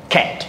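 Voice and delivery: "ক্যাট" with a short vowel ending on t. Shown as a demonstration. Teacher repeats the example for students, short-vowelled "ক্যাট". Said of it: "ছোট হয়ে গেছে".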